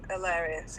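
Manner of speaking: Yorkshire "hilarious", H left off; Yorkshire accent. Shown as a demonstration. Guest repeats it for streamer, Yorkshire accent without H. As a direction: drop the H, Yorkshire-style. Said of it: "that's just the Yorkshire accent".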